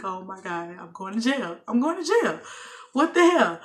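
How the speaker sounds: spiral into alarm as the cuffs come out; panicked disbelief. Retold or imitated. Arrest retold, voice rising.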